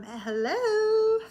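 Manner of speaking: high, laughing hello; laughing call. Retold or imitated. Calling to the ghost while laughing. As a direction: call out through giggles.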